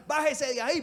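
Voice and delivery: high, loud taunt from below; mock jeering shout. Pharisees shouting up at Jesus on the cross, mock jeer. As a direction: jeer him down, hammed-up. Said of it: "los fariseos que pasan y le gritaban".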